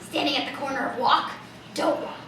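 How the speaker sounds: a lightly raspy eccentric bag lady; raspy street lady. Acted. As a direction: talk like a streetwise oddball addressing the crowd. Character voice held throughout.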